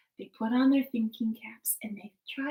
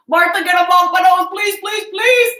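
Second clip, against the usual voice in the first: pleading husband; 9 semitones higher, 16 dB louder than usual. Acted.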